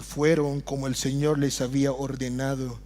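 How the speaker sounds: ordinary talk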